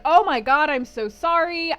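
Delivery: mock pleading apology, loud at first; begging forgiveness. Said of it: "starts begging for forgiveness".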